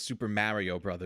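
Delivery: "Super Mario Brothers" with a New York vowel in "Mario"; New York pronunciation. Acted. Imitating a New Yorker naming the game, New York pronunciation. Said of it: "he's from New York, so he would say".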